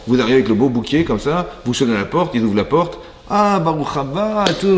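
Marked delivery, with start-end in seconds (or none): 3.3-4.8 much higher, slow, exaggerated welcoming voice; mock host welcome. Host greeting guest bearing flowers, hammed-up high sweet welcome. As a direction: play the overly sweet host at the door.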